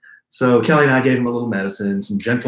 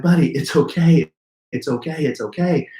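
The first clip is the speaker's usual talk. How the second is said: soothing dad; 4 semitones higher than usual. Retold or imitated. Dad soothing his sobbing son.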